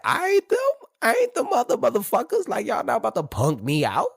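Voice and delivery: high, loud mock defiance; imitating hood guys boasting they won't be punked; defiant boast. Voicing hood people's challenge.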